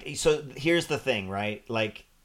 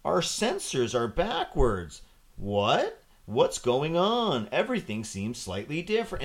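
mock puzzled crew; 2 semitones higher than usual. Mocking the show's drawn-out bewildered crew.

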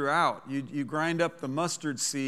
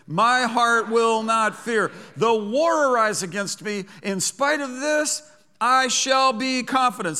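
call-and-response proclamation; 5 semitones higher, 6 dB louder than usual. Shown as a demonstration. Preacher leading congregation to repeat the verse, loud. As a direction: lead them in it, loud and sure. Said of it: "Say that with me".

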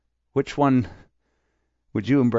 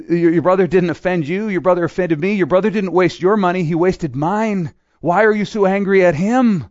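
father's appeal; 5 semitones higher, 3 dB louder than usual. Acted. Father pleads with older son.

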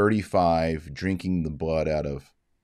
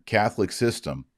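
scare quotes; 3 semitones higher than usual. Shown as a demonstration. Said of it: "I'm gonna put scare quotes on here".

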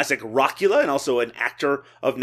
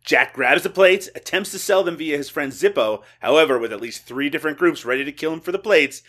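light radio countdown host impression; a hint of syndicated radio presenter; Casey Kasem. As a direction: read it like a countdown announcer, stressing key phrases. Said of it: "I was doing my Casey Kasem".

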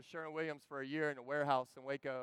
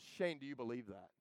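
lower, softer, grave; serious quiet question; 5 semitones lower, 7 dB quieter than usual. Retold or imitated. Coworker confronting the preacher, quiet and grave. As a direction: ask it heavy and low. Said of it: "he goes".

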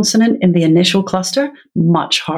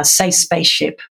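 teacher prompt. Shown as a demonstration. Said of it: "it would be something like".

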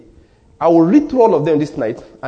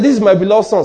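"This is my beloved son" raised in pitch, quick and strong; loud voice from heaven; 4 semitones higher, 4 dB louder, faster than usual. Retold or imitated. God declaring his son before a crowd, loud. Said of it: "It was so loud".

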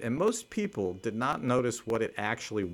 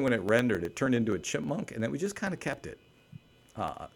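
ordinary talk, nothing marked

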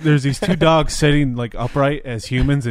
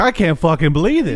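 amazed Aussie driver; 4 semitones higher, 4 dB louder than usual. Retold or imitated. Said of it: "He's like".

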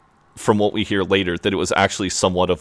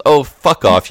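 higher, louder retold put-down; mock brush-off; 7 semitones higher, 6 dB louder than usual. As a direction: playfully act out telling someone off. Retelling Jay's rude brush-off.

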